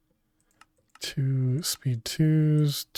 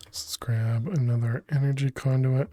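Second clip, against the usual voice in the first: whisper. Real, not acted. Whispered aside while playing.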